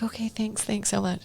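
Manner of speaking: soft, breathy, meek thanks to the cops; meek whispered gratitude. Retold or imitated. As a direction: murmur your thanks almost under your breath. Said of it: "I'm like".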